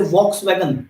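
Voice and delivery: Volkswagen begun with a V sound, "voks-wagen"; "VOKS-vagen" for Volkswagen; V pronunciation. Shown as a demonstration. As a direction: say Volkswagen as spelt, with a V. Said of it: "उसका एक नाम patent किया".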